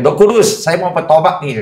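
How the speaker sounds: earnest prayer plea. Retold or imitated. Man retells praying to the Holy Spirit to repent, earnest plea.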